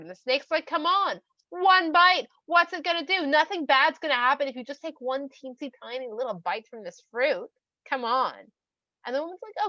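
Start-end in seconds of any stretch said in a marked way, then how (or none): 0.7-8.5 high, pushy coaxing; wheedling. Acted. Snake urges woman to take one bite, wheedling. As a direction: egg them on, raised and insistent.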